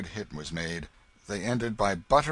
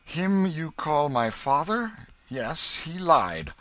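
higher, louder, deliberate retort; defiant young king; 8 semitones higher, 7 dB louder, slower than usual. A narrator's reading. The King calling Hugo's father a liar, defiant. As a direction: stand your ground firmly.

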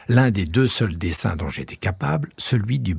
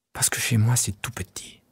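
ordinary delivery

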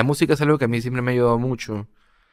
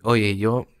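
weary confession; slower than usual. Retold or imitated. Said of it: "expresando esto de".

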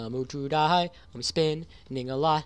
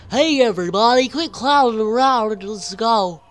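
high, loud call to all; 7 semitones higher, 12 dB louder than usual. Pretend. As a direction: call out to the crowd. Calling out to everyone.

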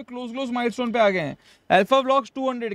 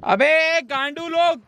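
angry; 7 semitones higher, much slower than usual. Real, not acted. Cursing during game.

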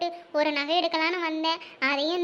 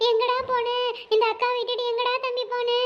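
fake crying; 4 semitones higher than usual. Woman fakes tears to trick the robber, hammed-up wailing. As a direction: overact the grief to fool the thief. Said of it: "இப்ப பாரு ஏன் நடிப்ப".

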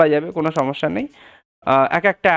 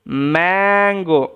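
drawn-out word; slower than usual. Shown as a demonstration. Word modelled slowly after sounding out.

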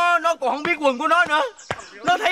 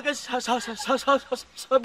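stuttering; 5 dB quieter than usual. Acted. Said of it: "Tao cà lâm".

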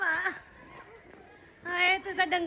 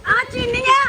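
excited shout; 4 semitones higher, 4 dB louder than usual. Pretend. Mock battle cry at Holi.

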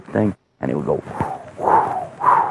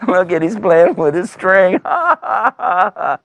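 high, gloating giant with ho-ho laughs; mock the little boy, laughing; amused, sneering taunt rising into laughter; 7 semitones higher than usual. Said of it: "He's going".

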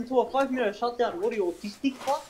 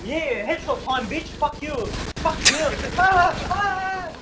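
swearing tirade; 3 semitones higher than usual. Real, not acted. Raging at zombies while gaming.

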